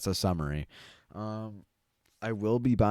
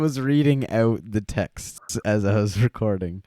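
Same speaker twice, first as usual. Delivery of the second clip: laughing protest; 4 semitones higher, 7 dB louder than usual. Real, not acted.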